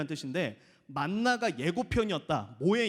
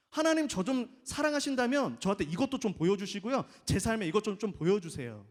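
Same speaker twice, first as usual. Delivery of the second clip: nagging prayer; 2 semitones higher than usual. Retold or imitated. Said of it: "똑같은 거예요".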